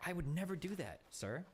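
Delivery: possibly sarcastic denial; ambiguous, tongue-in-cheek politeness; deadpan sarcasm. Real, not acted. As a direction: deny it with mock sincerity. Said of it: "I can't tell if you're being sarcastic".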